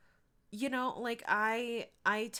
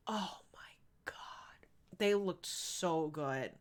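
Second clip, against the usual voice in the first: swooning whisper; 2 semitones lower, 4 dB quieter than usual. Real, not acted. Streamer swooning to chat over seventies men, whispered. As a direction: whisper it like a secret crush.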